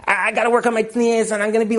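lightly voiced eager student, quick; imitating the student. Teacher retells the seminary student's plan, quick and eager. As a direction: mimic her intense plan. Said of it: "So she said".

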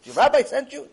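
high, loud incredulous question; acted astonishment. Man questioning the stranger about the rabbi, incredulous. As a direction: ask it in loud disbelief.

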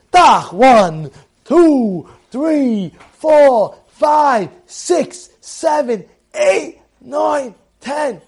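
loud opening crack, then counting out the blows; dealing out lashes, one count per hit; counting whip strokes. Acted. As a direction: count each lash as a separate punchy beat. Acts out whip counting each hit.

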